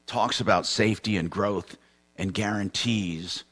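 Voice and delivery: announcer-style lead-in to a financial segment; strong attack easing into an even read; radio sponsor intro. Real, not acted. Host introduces next sponsor.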